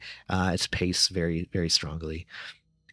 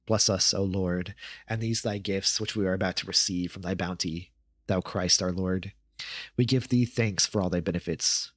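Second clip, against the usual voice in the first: prayer. A narrator's reading. Family says grace at the dinner table, a recited prayer.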